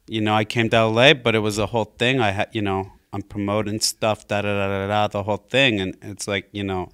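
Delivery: laid-back bro impression; Pauly Shore. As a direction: play the busy comedian making excuses to a friend. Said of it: "you guys should have a Pauly Shore off".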